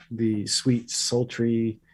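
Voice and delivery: sultry soothing voice. Pretend. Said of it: "our masculine yet soothing voices".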